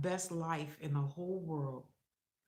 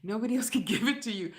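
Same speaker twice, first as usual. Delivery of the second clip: quoting Cat Williams; 4 semitones higher, much faster than usual. Retold or imitated. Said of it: "Cat Williams says this".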